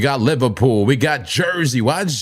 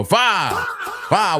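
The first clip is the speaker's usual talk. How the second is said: laughing; 10 semitones higher than usual. Real, not acted. Laughing "five" in chat.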